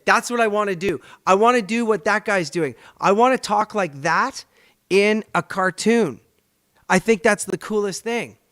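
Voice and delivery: young man suddenly inspired by a cartoon, excited; excited resolve. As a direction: announce your calling with gusto. Retelling standing up inspired.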